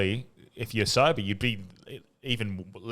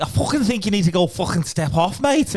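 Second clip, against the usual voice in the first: higher, louder put-on bogan voice, rising to a yelp; Kyle Legacy voice; 10 semitones higher, 6 dB louder than usual. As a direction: play it cheeky, not angry, to defuse the fight. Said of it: "I started talking like Kyle Legacy".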